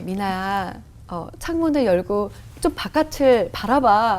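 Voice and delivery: slow, lightly acted gentle voice; Holy Spirit. The Spirit invites her to look out the window, slow calm voice. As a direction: coax her slowly and calmly. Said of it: "이렇게 말씀하시더라고요".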